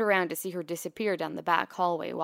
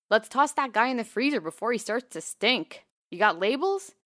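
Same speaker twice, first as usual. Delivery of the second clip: breezy doctor; 5 semitones higher, 7 dB louder than usual. A narrator's reading. Brisk vet breezing past.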